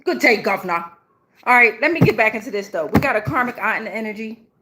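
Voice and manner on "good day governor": amateur Australian greeting; attempted Australian accent. Reader drifting off from Scottish, playful attempted Australian. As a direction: slip into a rough Australian accent. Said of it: "I keep wanting to be Australian".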